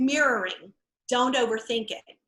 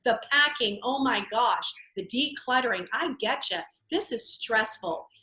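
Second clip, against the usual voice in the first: 1 empathetic agent. Acted. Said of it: "empathizing with the stress".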